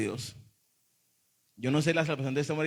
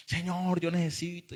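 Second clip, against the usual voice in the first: higher mock plea to God; imitating emotional pleading; 3 semitones higher, 4 dB quieter than usual. Preacher mimicking emotional youths at a retreat, mock pleading. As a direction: imitate an overcome young convert, pleading. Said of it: "yo los veía emocionados".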